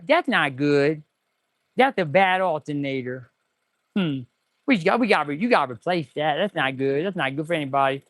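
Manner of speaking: a hint of a Leon Phelps voice; Leon Phelps impression. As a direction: lightly voice the smooth ladies' man. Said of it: "As Leon Phelps would say".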